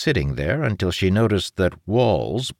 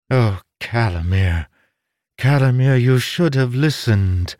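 scolding villainess; 5 semitones higher, 5 dB louder than usual. A narrator's reading. Scholar scolds the man approaching her.

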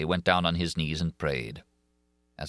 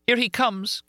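put-on much higher, louder young woman's cry; Christine crying out; 3 dB louder than usual. A narrator's reading. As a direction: cry out as the frightened heroine. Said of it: "cried Christine".

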